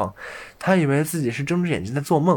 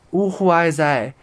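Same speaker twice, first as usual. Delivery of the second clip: a high, loud, slow wail; dismayed cry; 5 semitones higher, 4 dB louder, slower than usual. A narrator's reading. Tom waking up inside the cow's mouth, crying out in dismay. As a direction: wail it out in storybook despair. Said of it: "小汤姆叫了起来".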